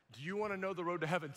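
fast retold invitation at normal pitch; brisk, contained acted question; quick restrained question. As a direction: rattle off the invitation without raising the voice.

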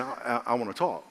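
lightly voiced quiet prompting; a little low and soft, gently insistent; Holy Spirit's voice. Holy Spirit to a sleeper, lightly acted soft voice. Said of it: "that's the Holy Spirit saying".

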